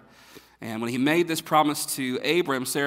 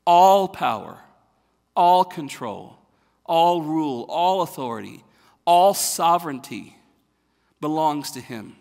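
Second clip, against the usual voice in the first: loud preaching build; 3 semitones higher, 8 dB louder than usual. Acted. Pastor proclaiming God's total rule, loud preaching. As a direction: pound out every "all" like a drumbeat.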